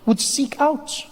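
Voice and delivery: measured storyteller with long pauses; mock-solemn narration. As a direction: intone it like a grand history tale. Narrates history between sketches.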